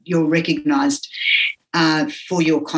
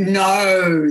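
mock shout; 3 semitones higher than usual. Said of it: "that, like this".

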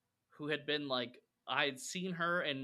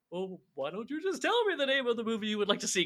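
high, put-on phone-operator voice; hammed-up sitcom hotline impression, much higher; Kramer; 9 semitones higher, 4 dB louder than usual. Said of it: "He goes".

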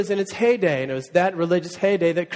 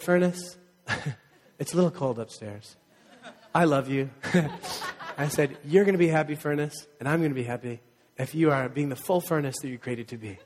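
chuckling sweet talk to the furnace, drifting softer; laughing mock tenderness; 2 semitones lower, 3 dB quieter than usual. Pastor retelling how he sweet-talked his broken furnace, laughing. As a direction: coax the furnace kindly through laughter. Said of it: "I just said".

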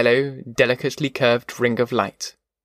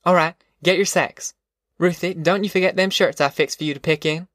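lightly voiced mother, higher pitch; Ma, bustling; 5 semitones higher than usual. Ma sending Ruthie and the family off, mildly bossy. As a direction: give orders in lightly acted dialect.

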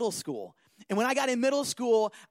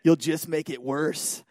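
low, slow voice in the head; inner warning voice; 8 semitones lower, slower than usual. Retold or imitated. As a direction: play a conscience warning in a deep tone. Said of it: "you have, like, this voice".

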